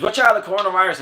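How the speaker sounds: high, loud mock scream of warning; retold scream. Retelling a viral video, guy yelling a mock warning. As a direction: yell it like a startled buddy at the fridge. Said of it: "the other guy screams".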